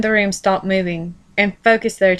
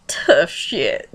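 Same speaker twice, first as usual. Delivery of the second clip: laughing. Real, not acted. Laughing at the story.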